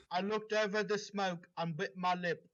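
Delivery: dramatic read-aloud of a fanfic; story reading. Acted. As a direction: narrate it like the opening of a novel.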